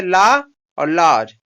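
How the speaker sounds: slow, careful "लॉ और लॉज" with each word set apart; clear pronunciation demo. Shown as a demonstration. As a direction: spell out "लॉ" and then "लॉज" slowly for the class. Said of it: "इसको क्या पढ़ते हैं?".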